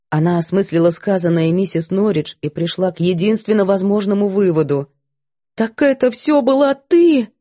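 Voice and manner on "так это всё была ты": shocked. A narrator's reading. Maid realizes cook's guilt.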